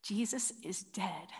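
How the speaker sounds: solemn hush over the death; hushed narration. Real, not acted. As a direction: let the voice sink with the death.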